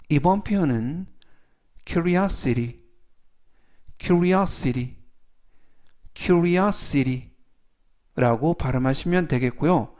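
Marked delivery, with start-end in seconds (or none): 1.9-7.3 curiosity with the stress on the middle O, kju-ri-A-si-ri. Shown as a demonstration. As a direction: lean on the O in curiosity, slowly. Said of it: "강세는 가운데 부분에 있는 알파벳 O에".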